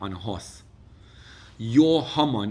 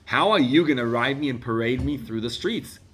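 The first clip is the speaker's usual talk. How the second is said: amazed excitement; 2 semitones higher, 6 dB louder than usual. Pretend. Excited wonder at miracle.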